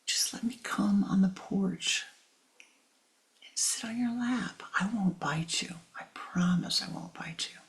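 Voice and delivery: soft, hushed coaxing promise; whispered wheedling. Acted. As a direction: sweet-talk him quietly. Cobra wheedling, promising not to bite.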